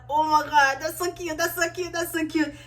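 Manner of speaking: gushing. Retold or imitated. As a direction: melt at how cute it is. Gushing over the couple.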